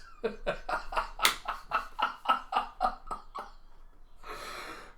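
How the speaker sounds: breathy cackle trailing off; scheming chuckle that keeps going; laughing. Acted. Laughing after Anya's scheming line.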